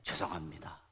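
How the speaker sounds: low, soft imitated apology; small, submissive retold voice; meek apology. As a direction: act out a cowed officer begging pardon. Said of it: "아주 손이 발이 되도록 빌고".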